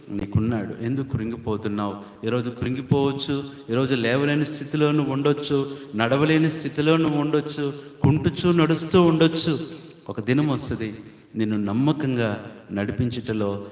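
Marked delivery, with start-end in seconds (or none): 3.7-9.7 building preaching intensity. Real, not acted. Preacher consoles the limping and fallen, his voice climbing. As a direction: swell toward a fervent peak.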